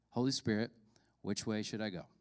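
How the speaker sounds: soft, low prayer; hushed, reverent question; quiet prayer. Acted. Retold prayer while driving.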